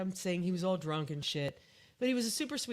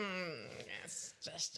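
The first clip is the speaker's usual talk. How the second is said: mock fussy guy; 5 semitones lower, 10 dB quieter, much slower than usual. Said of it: "He's all like".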